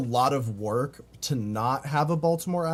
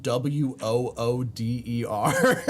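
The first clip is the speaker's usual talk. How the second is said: spelling it out, slowing into laughter; laughing; slower than usual. Real, not acted. Streamer recalling childhood spelling mistake, dissolving into laughter. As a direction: break into real giggles by the end.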